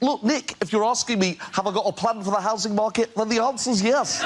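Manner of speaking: high-pitched politician impression; Ed Miliband. Politician dodging the interviewer's question, high mocking impression. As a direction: imitate a politician answering his own question, pitched high. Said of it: "And Miliband just went".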